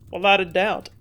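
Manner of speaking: ordinary delivery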